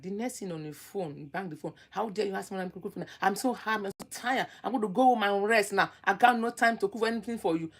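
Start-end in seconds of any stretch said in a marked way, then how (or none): 1.9-7.7 rushed, indignant snapping, fast at first; mock angry retort. Mocking fiancée snapping at her man about cooking. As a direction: imitate a fiancée biting back over the phone.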